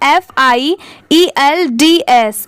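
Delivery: एफ़ आई ई एल डी एस spelled letter by letter, slowly; slow, clear letter-by-letter spelling of एफ़ आई ई एल डी एस. Shown as a demonstration. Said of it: "ऐसे याद करिए". (अक्षर-अक्षर धीरे spelling)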